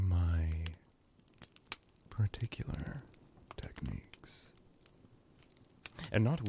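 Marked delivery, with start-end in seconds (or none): 2.1-4.5 hushed, airy threat; menacing whisper. Acted. Ruler hinting at torture to a captive servant, menacing whisper. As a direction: let the words drop to a whisper, with a pause between.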